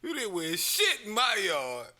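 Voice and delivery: mild mock angry old man; angry homeowner. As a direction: shoo them off. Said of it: "He said".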